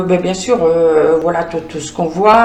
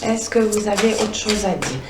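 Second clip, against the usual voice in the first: asked again, much softer; 6 dB quieter than usual. Shown as a demonstration. Tarot reader repeats her question to the oracle deck, hushed. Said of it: "je vais essayer".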